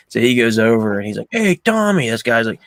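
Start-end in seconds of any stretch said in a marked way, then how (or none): 1.3-2.1 raised-pitch mock hail; imitated hearty greeting. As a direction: play calling out to an old pal. Retold greeting across the bar.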